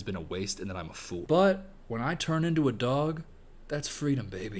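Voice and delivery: low, soft, sinking confession; mock confession. Imitating the collie man's insecurity, low and quietly defeated. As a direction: let it trail down into a near mutter. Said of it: "while saying".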